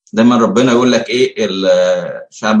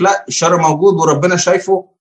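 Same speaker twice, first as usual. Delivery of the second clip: emphatic retort; 7 semitones higher than usual. Retold or imitated. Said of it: "بيقول لك".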